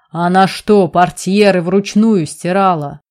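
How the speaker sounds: loud furious roar. Acted. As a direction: roar it out in outrage. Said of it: "заревел Амирьян".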